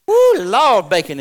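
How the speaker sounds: high, loud whoop of delight; joyful "Woo, Lord" cry. Real, not acted. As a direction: whoop it out with joy. Exclaiming over bacon.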